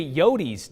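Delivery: "yotes" said YO-teez, two syllables; nickname pronunciation. Retold or imitated. Viewer's email challenging the newscaster, "yotes" pronounced YO-teez. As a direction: end "yotes" with a teez sound. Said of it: "You don't say".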